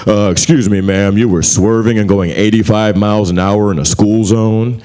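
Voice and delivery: a calm officer reading the offense; lightly voiced traffic cop; police officer. Cop pulls over Trish.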